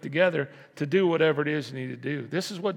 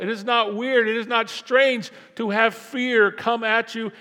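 raised, driving preacher voice; full-force preaching; 5 semitones higher, 6 dB louder than usual. Acted. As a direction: preach it to the church, building.

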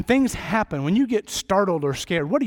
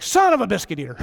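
louder mock yelp as if he's just cut his hand; retold shout of pain; 2 semitones higher, 4 dB louder, faster than usual. Pastor reliving cutting his hand alone, mock shout. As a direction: shout it like you've sliced your hand. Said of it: "I was like".

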